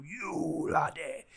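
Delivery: a hint of a stern Welsh teacher, slow; lightly voiced Welsh head teacher. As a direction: drag it out like a strict teacher. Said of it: "he used to go".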